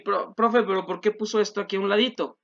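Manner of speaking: lightly voiced pupil querying the teacher; mock student question, a bit hurried. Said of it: "Van a decir".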